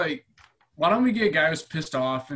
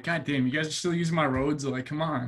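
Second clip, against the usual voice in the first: mock exasperated Ike; 7 dB louder than usual. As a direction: scold the country for still using his old roads. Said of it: "shaking his head right now, like".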